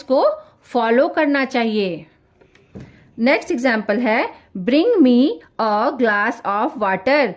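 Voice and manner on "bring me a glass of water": firm order. Shown as a demonstration. Teacher showing students an order, firm command. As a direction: say it slowly as a plain command. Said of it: "order दिया जा रहा है".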